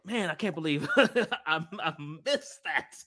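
slow, laughing lament; slow rueful laugh over a missed moment; laughing regret. Retold or imitated. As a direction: chuckle through the disappointment. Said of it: "I was like".

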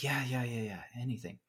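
weak breathless whisper from the sickbed; a sick woman's faint whispered yes. Retold or imitated. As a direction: whisper it like you're too ill to speak.

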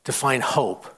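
low, soft, earnest appeal; hushed plea. Real, not acted. Preacher pleads with young people about hope, hushed and earnest. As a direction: bring it right down, with heavy pauses.

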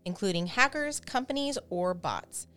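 scripted sponsor read; polished host-read advertisement; podcast ad read. Acted. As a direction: read the sponsor copy clearly and evenly. Reads the sponsor ad.

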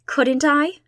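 a rash, high, loud cry. A narrator's reading. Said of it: "cried Anne rashly".

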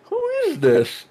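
very high squeaky mock amazement; hammed-up wonder. Fan re-enacting seeing the mystery hand, high-pitched mock wonder. Re-enacts theater reaction to reveal.

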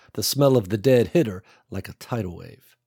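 usual speaking voice

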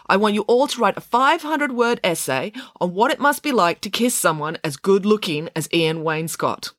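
lightly voiced, enthusiastic teacher; teacher setting an assignment.

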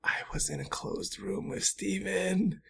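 hushed whisper. Retold or imitated. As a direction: breathe it out secretly. Fearful aside about disease.

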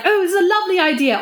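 high, quick delighted agreement; retold eagerness. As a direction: imitate friends gleefully joining a prank. Acting out visiting friends' eager agreement.

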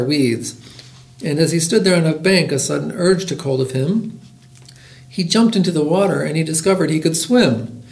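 lively, rhythmic picture-book reading; bouncy storytime narration; story read-aloud. A narrator's reading. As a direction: read a rhyming tale aloud to listeners.

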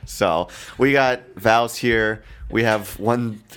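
sluggish morning-after voice; hungover. Real, not acted. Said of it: "I'm extremely hungover".

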